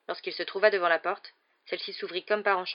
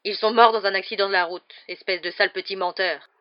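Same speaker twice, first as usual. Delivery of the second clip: loud, mounting indignant tirade; hurlement de colère; 9 dB louder than usual. A narrator's reading. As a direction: berate the boy, swelling with anger. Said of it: "hurla la tante Marge en s'enflant de colère". (tirade furieuse, voix forte)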